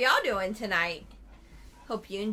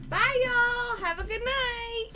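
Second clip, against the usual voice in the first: excited; 13 semitones higher, 5 dB louder than usual. Real, not acted. Cheerful stream sign-off.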